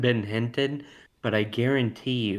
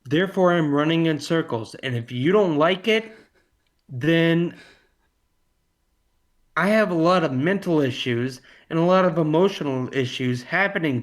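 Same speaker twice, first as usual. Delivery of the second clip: louder and higher, hammed-up frazzled rant; mock frantic rant; 4 semitones higher, 4 dB louder than usual. Excusing his rambling to friends with a hammed-up loud, high rant. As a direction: play the overwhelmed one, loud and pitched up. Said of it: "I've been mentally and emotionally shaken".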